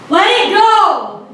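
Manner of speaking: drawn-out, high exasperation; exasperated plea. Retold or imitated. Retold exasperation with friend.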